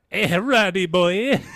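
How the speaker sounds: loud slow laughing call; laughing tease. Acted. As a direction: sing it out through laughter. Teasing call while laughing.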